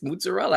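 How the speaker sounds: mozzarella said as "mootz-a-rel", Italian-American style; New York mozzarella. Shown as a demonstration. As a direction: clip mozzarella like a Bronx deli man. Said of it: "That's how I pronounce it".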